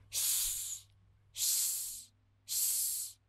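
hushed shh to quiet a friend; shushing. Acted. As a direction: shh them down softly. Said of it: "pedem silêncio".

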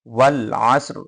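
ওয়াল আসর ending on bare s and r; waqf stop ending. Shown as a demonstration. Teacher asking students to follow along, ওয়াল আসর with stopped r. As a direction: close ওয়াল আসর on a faint vowelless r. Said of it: "আমার সাথে মিলাই দেখেন".

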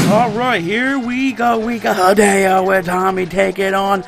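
excited match commentary, stretched key words; wrestling play-by-play. Pretend. Gamer calling Hideo's match against Ruckus, announcer-style play-by-play. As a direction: call the match like a ringside announcer.

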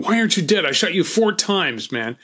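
the gunman still baffled his victim lives; panicked yell. Retold or imitated. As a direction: shout it in frightened disbelief. He kept saying.

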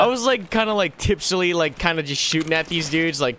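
shocked laughter. Real, not acted. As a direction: giggle through the retelling. Recounting lucky shot, giddy.

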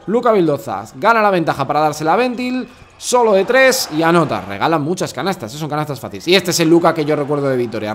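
play-by-play commentary. Acted. Commentator takes fans through Luka's baskets, lively play-by-play. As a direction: call the plays with surges on key words. Commentates over highlight clips.

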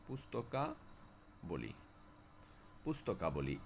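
পুস্তকাবলি খুব ধীরে, নরম গলায় টেনে বলা; drawn-out example. Shown as a demonstration. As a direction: stretch পুস্তকাবলি slowly and softly. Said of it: "শব্দের শেষে উচ্চারিত হচ্ছে আবলি". (পুস্তকাবলি ধীরে টেনে বলা)

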